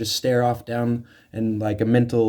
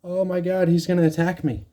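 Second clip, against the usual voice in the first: mock fright; 6 semitones higher than usual. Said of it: "or you get scared".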